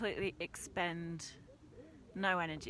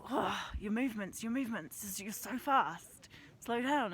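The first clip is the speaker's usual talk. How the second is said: a hint of a fussing guide, higher and louder; mock scolding; 4 semitones higher, 6 dB louder than usual. Quoting Francis scolding her pace.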